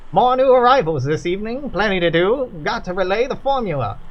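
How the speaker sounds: put-on brisk worker with a light Kentucky accent; busy factory worker. Worker greeting visitors, busy light Kentucky voice. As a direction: hurry along, a worker with too much to do.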